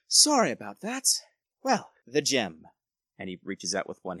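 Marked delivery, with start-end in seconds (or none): 0.1-2.7 a much higher, louder put-on gentleman's voice; suave lord. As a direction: greet them like a smooth host. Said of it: "he's like".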